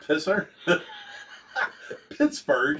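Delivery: laughing on the misheard name; amused laughter. Real, not acted. Host catching co-host's slip, laughing. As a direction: crack up between the words.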